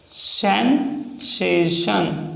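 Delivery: सेंसेशन drawn out very slowly; सेंसेशन stretched out for writing; slow dictation. Shown as a demonstration. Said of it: "next example है".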